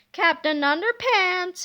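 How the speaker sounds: slow, taunting sing-song call; mocking call. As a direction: lure him out with a sneer. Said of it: "he called mockingly".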